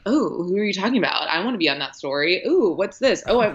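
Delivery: quick, nosy, prying voice; smarmy know-it-all impression. A smarmy reporter nosing in on a colleague's story, quick. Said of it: "being like".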